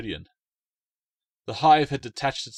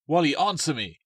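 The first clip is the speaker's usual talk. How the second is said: calling out; 6 semitones higher, 8 dB louder than usual. Acted. Girl calling for her brother.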